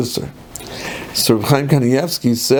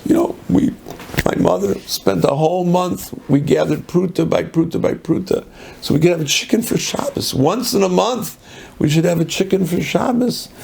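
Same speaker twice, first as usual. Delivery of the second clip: put-on higher, plaintive child's complaint, no real sobbing; retold crying girl's plea; 5 semitones higher than usual. Ten-year-old explains to the Taz why she's crying, plaintive. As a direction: lightly imitate an upset little girl pleading. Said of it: "she's crying hysterically".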